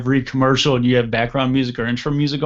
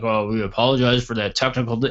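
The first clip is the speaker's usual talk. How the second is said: mock news anchor; faster than usual. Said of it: "they're like".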